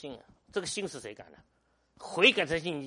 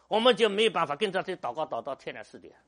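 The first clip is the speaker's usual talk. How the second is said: laughing; 4 semitones higher, 10 dB louder than usual. Real, not acted. Recalling the all-night prayer.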